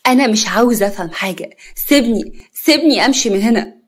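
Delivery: pleading demand. Acted. Yara pulls away from Hatem.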